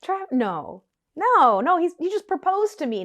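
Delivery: frantic disbelief with a squeaking high "Travis?"; retelling a friend's panicked denial. Retold or imitated. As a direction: stammer it out, refusing to believe it.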